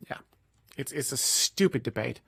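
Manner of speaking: talking while chewing; words round a bite of food; chewing noisily. Real, not acted. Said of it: "Sorry, I'm eating".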